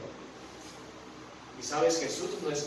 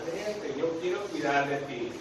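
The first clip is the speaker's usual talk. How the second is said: tender invitation; 2 semitones lower, 4 dB quieter than usual. Acted. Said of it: "Jesús te está diciendo ahorita".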